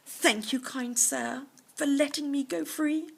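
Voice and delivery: lightly voiced polite tiger; grateful tiger. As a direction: thank him grandly. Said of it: "said Mountain Uncle".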